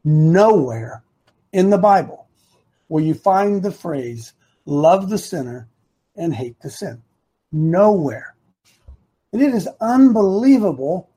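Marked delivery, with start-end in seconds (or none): 0.0-8.4 very deliberate, broken into short phrases; low, emphatic, drawn-out "Nowhere"; real slowly. Shown as a demonstration. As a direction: spell it out slowly with a pause after each phrase. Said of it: "say this again real slowly".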